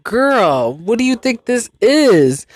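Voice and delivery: exasperated, high-pitched telling-off of a pet; mock scolding. Owner to cat that jumped in the fridge, mock scolding. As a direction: swoop up high in mock disbelief.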